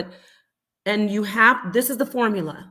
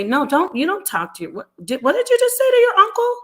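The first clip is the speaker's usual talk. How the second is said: a mother's sharp rebuke, hammed up; mother scolding child for disrespecting uncle, sharp rebuke; scolding parent; 3 semitones higher, 4 dB louder than usual. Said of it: "people don't say".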